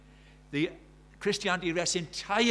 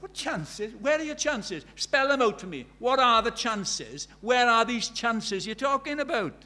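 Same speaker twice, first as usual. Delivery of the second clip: loud, higher, slowing pointed questions; forceful challenge; 7 semitones higher, 7 dB louder, slower than usual. Retold or imitated. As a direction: press him on every word. Preacher retorts to tough guy.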